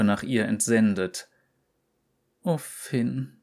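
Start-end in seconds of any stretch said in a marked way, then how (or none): 2.4-3.4 leise sehnsüchtig geseufzt; seufzend. Acted. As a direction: seufz den Namen leise. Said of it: "seufzte sie". (leise seufzend)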